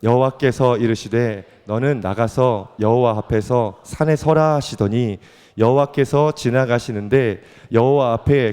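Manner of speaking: slow, measured, even-pitched Bible reading; scripture reading. Acted. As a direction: read the passage out formally and steadily. Reads Bible passage aloud. (느리고 또박또박한 성경 봉독)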